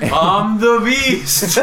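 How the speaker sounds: laughing through the words, slowly. Real, not acted. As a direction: breaks up laughing as he says it. Cracking up mid-bit.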